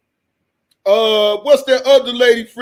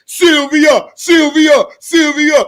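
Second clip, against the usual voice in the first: calling out; 4 semitones higher, 5 dB louder, slower than usual. Retold or imitated. Mock-calling the name again.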